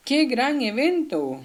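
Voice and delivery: "gran evento" lifted in admiration; exclamation of amazement. Shown as a demonstration. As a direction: exclaim it with wonder. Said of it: "está expresando, eh, u-, algo de asombro".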